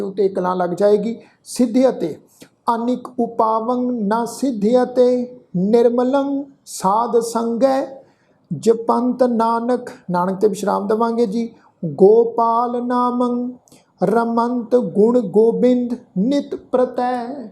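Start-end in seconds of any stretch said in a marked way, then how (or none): 2.7-9.9 slow, sustained sacred verse; measured Gurbani recitation; scripture recitation. Shown as a demonstration. 11.8-17.5 slow, sustained sacred verse; measured Gurbani recitation; scripture recitation. Shown as a demonstration.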